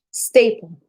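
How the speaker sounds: breathy whispered staple. Acted. Whispering the word staple to her audience.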